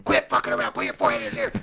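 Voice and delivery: loud yelled coaching from the mat edge; coach screaming. Retold or imitated. Coach retelling how he yelled instructions at his wrestler, loud. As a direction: bark orders at your wrestler mid-match. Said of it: "I'm screaming".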